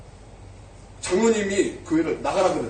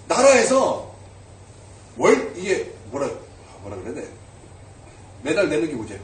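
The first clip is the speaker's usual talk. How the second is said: ordinary talk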